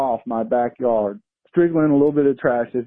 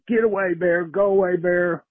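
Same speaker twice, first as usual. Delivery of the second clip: higher, drawn calling-out without real volume; mild retold yell; 5 semitones higher than usual. Man retelling shooing a bear from trash, mock yelling. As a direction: shoo it off in a held-back yell. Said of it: "and yelled".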